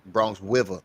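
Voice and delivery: mock a heavy Bronx accent; overdone New York dropped R; exaggerated New York accent. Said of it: "Ain't nobody New York accent that fucking strong".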